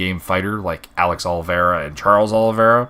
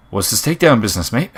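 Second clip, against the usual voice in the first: quick, higher-pitched mock Aussie accent; bad Australian accent; 4 semitones higher, 4 dB louder, faster than usual. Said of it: "that's bad Australian accent".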